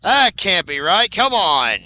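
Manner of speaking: loud, high cry of amazement; stunned sportscaster shouting in disbelief; excited disbelief. Real, not acted. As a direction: call it out in real astonishment, high and loud. Disbelieving call of a surprise triple.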